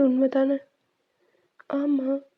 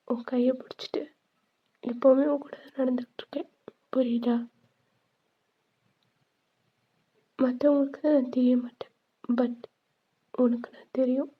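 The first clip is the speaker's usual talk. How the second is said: whisper. Acted. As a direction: whisper it like a spirit at her side. Ghost holding her hand.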